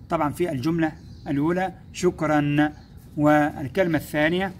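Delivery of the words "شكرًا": شكرًا ending in a clear -an; tanween fath. Shown as a demonstration. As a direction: sound the final -an of شكرًا. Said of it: "كلمة بها تنوين فتح".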